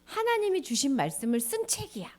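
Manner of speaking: hushed storytelling whisper. Acted. 아이에게 속삭이듯 설명하며 whisper. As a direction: lean in and whisper it to the child.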